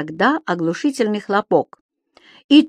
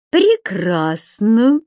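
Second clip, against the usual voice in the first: very slow, gloating word; unkind smile; 4 semitones higher, 3 dB louder, much slower than usual. Acted. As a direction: savour it with a nasty grin. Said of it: "с недоброй улыбкой".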